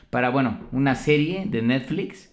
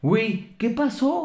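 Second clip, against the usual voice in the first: higher mock woman asking; girly voice; 8 semitones higher, slower than usual. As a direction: play the puzzled girl, pitched up. Girl asks what happened. (voz de chica fingida, más aguda)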